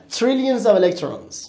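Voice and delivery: Trillions of electrons said very slowly; slow English model. Shown as a demonstration. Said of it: "باریکلا". (آرام و شمرده برای کلاس)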